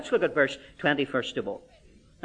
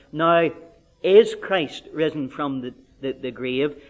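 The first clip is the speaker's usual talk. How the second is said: P=A; read as a question; 3 semitones lower, slower than usual. Shown as a demonstration. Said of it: "some may think that that might be a question".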